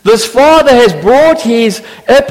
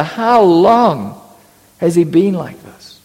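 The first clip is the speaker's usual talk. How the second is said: compassionate; 4 semitones lower, slower than usual. Retold or imitated. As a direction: ask the father tenderly. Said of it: "genuine compassion".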